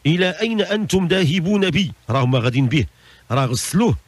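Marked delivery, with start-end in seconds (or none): 0.1-1.9 higher-pitched acted cry of protest. Dead man to those carrying him off, crying out in protest. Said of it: "كيشوفهم في الأول يصيح".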